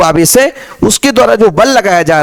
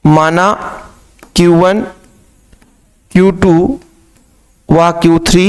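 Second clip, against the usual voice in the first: slow dictation; 3 semitones lower than usual. Shown as a demonstration. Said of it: "मैं कहता हूं कि माना".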